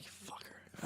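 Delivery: very soft whisper; hushed mock resentment; retold muttered regret. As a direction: whisper it bitterly, as if to yourself.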